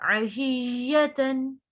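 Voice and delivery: slow, drawn-out tajweed recitation; Quran recitation. Shown as a demonstration. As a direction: recite it with ghunna on the noon. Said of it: "यहाँ पे हमने ता नहीं पढ़ना". (धीमी तजवीद वाली तिलावत)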